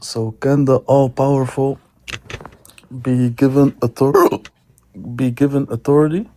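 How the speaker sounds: interrupted by hiccups; hiccuping. Real, not acted. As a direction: speak through hiccups. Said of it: "I have the hiccups".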